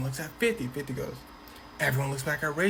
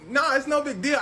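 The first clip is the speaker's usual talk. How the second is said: high, louder brush-off; downplaying; 10 semitones higher, 5 dB louder than usual. A rapper telling another rapper it was nothing, high brush-off. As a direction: shrug it off up high.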